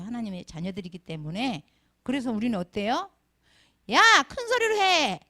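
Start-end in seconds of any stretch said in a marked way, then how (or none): 3.9-5.2 loud, high mock bellow; acted-out shouted order; imitated yelling. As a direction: yell it like an elder drilling a choir. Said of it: "어떻게 소리를 질렀냐면".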